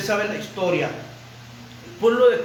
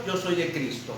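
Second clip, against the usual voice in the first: lower, softer, composed claim; more centred; 4 semitones lower, 5 dB quieter than usual. Acted. The more centred faction in Corinth declaring its allegiance, composed. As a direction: state it with quiet composure. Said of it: "más centrados".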